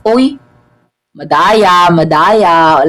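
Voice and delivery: loud complaining cry; protesting. Real, not acted. Gamer complaining the guard cheats, loud protest. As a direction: call the game unfair.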